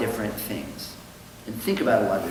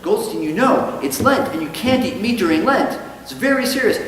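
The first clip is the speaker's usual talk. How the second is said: higher and louder scolding; stern priest; 9 semitones higher, 5 dB louder than usual. Acted. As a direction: scold him like a strict priest.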